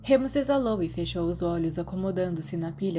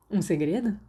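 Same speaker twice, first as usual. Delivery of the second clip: eager. A narrator's reading. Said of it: "Sirius respondeu ansioso".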